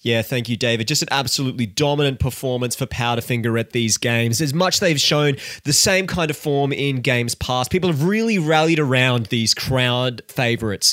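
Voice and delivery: light sportscaster read, rising toward the end; sports commentator voice. Acted. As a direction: analyse it like a TV sports pundit. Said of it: "Can I stop doing this sports commentator voice?".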